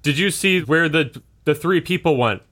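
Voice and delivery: pursuer questioning. Acted. Game master as pursuer asking after three people, questioning. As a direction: ask urgently, lightly in character.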